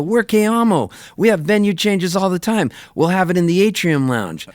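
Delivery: high, casual bragging organizer; breezy boast. Retold or imitated. Cruise organizers reassuring the groom, high breezy voice. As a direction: brush it off as no big deal.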